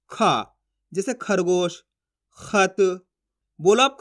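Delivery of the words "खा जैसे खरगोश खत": slow "खा", "खरगोश", "खत" with aspirated kh; model pronunciation. Shown as a demonstration. Teacher answering how to read it, slow, separate "खा", "खरगोश", "खत". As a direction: sound out "खा" with a puff of breath, then "खरगोश", "खत". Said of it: "कैसे पढ़ेंगे?".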